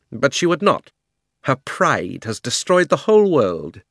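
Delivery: loud, high, imperious queen voice; haughty queen's loud grievance; proud queen. A narrator's reading. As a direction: rant like a wronged tyrant queen.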